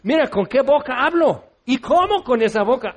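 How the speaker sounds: half-hearted despairing protest; anguished Isaiah. Retold or imitated. Preacher voicing Isaiah protesting his unclean lips, mock despair. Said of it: "Isaías dice".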